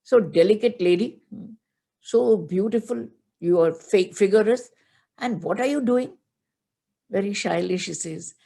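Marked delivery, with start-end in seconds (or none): 0.0-6.1 put-on louder, teasing young suitor; teasing Brahmin boy. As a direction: tease her playfully as a cheeky young Brahmin. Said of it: "The Lord comes as a Brahmin boy and says".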